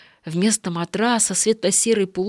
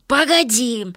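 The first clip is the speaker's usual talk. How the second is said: higher, louder call; 6 semitones higher, 4 dB louder than usual. Acted. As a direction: call him back urgently. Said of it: "крикнул Егор противным визгливым голосом".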